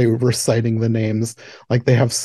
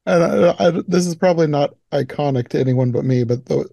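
ordinary delivery

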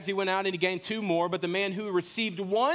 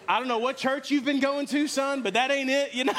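higher-pitched, laughing dad telling off his son; laughing mock rebuke; 8 semitones higher, 3 dB louder than usual. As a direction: tease your kid through a laugh. Joking retold reply to his son.

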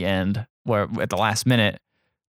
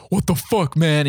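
higher-pitched mock outrage; retold freak-out; 5 semitones higher, slower than usual. Student reacting to a pickup attempt, retold freak-out. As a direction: act out someone freaking out. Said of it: "He freaks out".

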